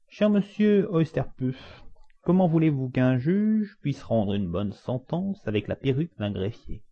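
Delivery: high, drawn-out judge's voice opening the line; pompous judge. Acted. Judge asking his clerk about the wig, high-pitched and pompous.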